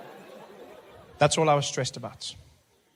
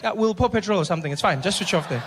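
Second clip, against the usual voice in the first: reassuring attendant; 4 semitones higher, 5 dB louder than usual. Retold or imitated. Attendant voice acted.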